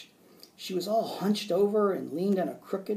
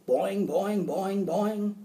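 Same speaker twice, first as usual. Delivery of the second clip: higher, springy twang; bouncy frog boing; 5 semitones higher, much slower than usual. A narrator's reading. Frog splashing happily for the teacher, bouncy boings. Frog's noise imitated after splashing.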